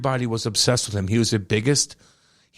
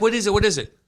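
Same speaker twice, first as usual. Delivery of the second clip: put-on excited kid; 8 semitones higher, faster than usual. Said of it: "I'm like".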